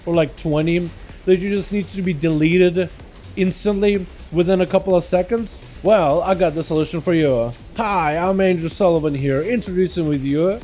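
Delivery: hammed-up TV salesman pitch, slowing down; infomercial pitch. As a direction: sell it like a late-night ad. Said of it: "this is why I never got into commercial business".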